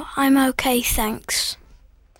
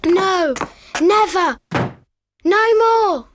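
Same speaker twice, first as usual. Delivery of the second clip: defiant. Acted. Child refuses.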